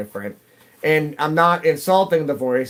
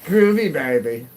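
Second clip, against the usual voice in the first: Austin Powers; 3 semitones higher, 4 dB louder than usual. Retold or imitated. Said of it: "I'm gonna go into Austin Powers".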